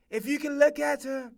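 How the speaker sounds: If you can look at her with "look" slipping into an odd put-on accent; stray odd accent. Shown as a demonstration. Host introducing the singer slips into a stray odd accent. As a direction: slip into a random silly accent, then catch yourself. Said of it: "where that fucking stupid ass accent came from".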